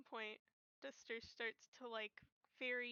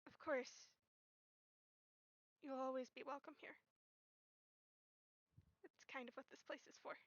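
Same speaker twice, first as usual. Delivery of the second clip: gentle reassurance. Acted. In character, reassuring a runaway friend.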